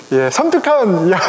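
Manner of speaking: ordinary talk, nothing marked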